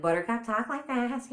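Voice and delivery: lightly voiced cat character; Buttercup. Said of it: "so some of their voices".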